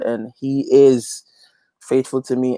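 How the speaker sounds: hushed, slow whisper. Real, not acted. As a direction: breathe it like a private confession. Intimate testimony of faith.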